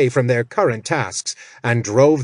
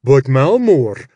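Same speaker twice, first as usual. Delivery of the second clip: slow, louder whining gnoll voice; gnoll protesting; 2 semitones higher, 6 dB louder than usual. Acted. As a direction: draw out a nervous creature protest. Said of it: "Karshk protested".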